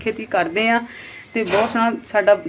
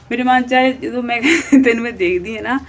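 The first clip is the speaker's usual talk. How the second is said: words breaking into a laugh, a bit louder; laughing while talking; 3 semitones higher, 5 dB louder than usual. Real, not acted. Vlogger teasing a quarrelsome rival, laughing as she talks. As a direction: chuckle through the line.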